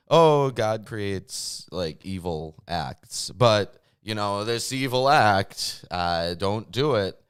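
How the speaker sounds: slow mocking paraphrase of scripture; sarcastic paraphrase. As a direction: drawl it out mockingly. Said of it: "you're, like, outright".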